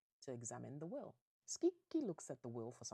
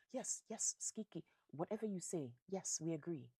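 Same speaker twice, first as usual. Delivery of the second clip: high, loud fawning assent; over-keen chorus of yes-men; eager agreement; 4 semitones higher, 4 dB louder than usual. Acted. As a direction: play greedy relatives agreeing at once. Greedy relatives eagerly agree.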